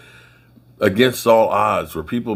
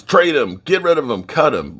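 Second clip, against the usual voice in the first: fans yelling; 8 semitones higher, 4 dB louder than usual. Retold or imitated.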